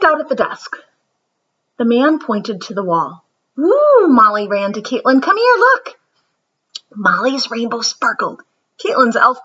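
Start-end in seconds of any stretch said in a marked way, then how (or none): 3.6-4.1 high, loud delighted whoop; excited cheer. Acted. Molly cheers at artwork. 5.2-6.0 high, louder eager call to a friend; excited call. Acted. Molly calls to Caitlin.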